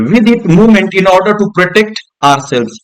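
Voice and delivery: slow, deliberate reading aloud; textbook reading. Shown as a demonstration. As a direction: read each word out slowly for the class. Reads textbook line slowly.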